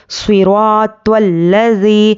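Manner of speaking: slow صراط الذی with a long held ee; elongated yaa madd. Shown as a demonstration. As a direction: stretch the end of الذی for one alif. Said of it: "کھینچ کر پڑھیں گے یا مدہ کو".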